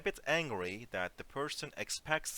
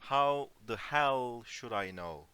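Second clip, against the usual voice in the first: annoyed; 5 dB louder than usual. Shown as a demonstration. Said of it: "Okay, it's more like".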